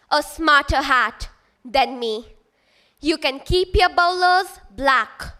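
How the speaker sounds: measured rhyming recital, lifting then dropping each couplet; verse recitation. Acted. Student reciting the Sorting Hat's lines to festival audience, measured recitation. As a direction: declaim the rhyme with clear pauses.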